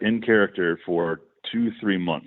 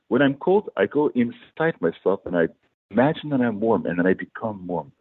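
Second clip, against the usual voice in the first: lightly imitated thick accent, measured; deadpan it in a Borat-style accent; Borat-like heavy accent. Shirtless bandmate explaining how he stays warm, in a heavy accent. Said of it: "he spoke, uh, basically like Borat".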